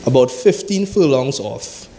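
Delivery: measured, solemn Bible reading; steady preacher reading scripture. Acted. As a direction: read the verses aloud to the congregation.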